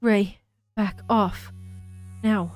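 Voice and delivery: put-on slow, firm line in an Australian accent. Character warning Rei to back off, Australian accent. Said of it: "That sounded Australian".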